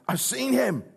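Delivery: Mary telling the disciples, jubilant; overjoyed Mary. Retold or imitated. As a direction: burst out with the news. Mary announces risen Lord.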